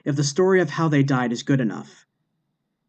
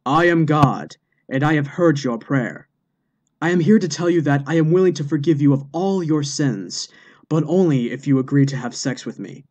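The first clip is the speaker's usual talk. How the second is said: mock God shout. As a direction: announce yourself grandly as God. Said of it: "revealed himself and shouted".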